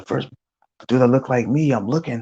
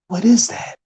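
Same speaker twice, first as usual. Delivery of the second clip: puzzled; 13 semitones higher than usual. Retold or imitated. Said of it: "we're like".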